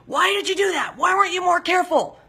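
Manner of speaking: high-pitched mock scolding; mad husband. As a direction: imitate an exasperated husband's outburst. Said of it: "is to get mad at me".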